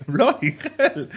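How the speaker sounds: drawn-out, courteous disbelief; slow, restrained English shock; polite Englishman. Retold or imitated. Englishman in tapas bar, politely appalled. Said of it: "con mucha educación, pero diciendo".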